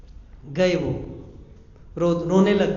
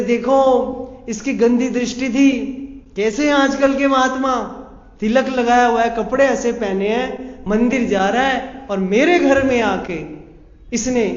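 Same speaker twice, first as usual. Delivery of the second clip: high, loud, wailing complaint to the crowd; loud false accusation; 4 semitones higher, 4 dB louder than usual. Acted. Woman falsely accuses before crowd. (भीड़ के सामने झूठा आरोप, ऊँची तेज़ आवाज़ में चिल्लाते हुए)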